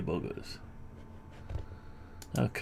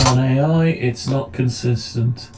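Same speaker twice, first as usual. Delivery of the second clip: loud; 7 dB louder than usual. Shown as a demonstration. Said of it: "looks like we've got some audio".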